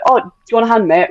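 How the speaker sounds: casual, friendly offer of help. Shown as a demonstration. Offering help to a woman at a game, easy and friendly. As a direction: offer a hand like a mate would. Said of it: "it's kind of how you approach the situation".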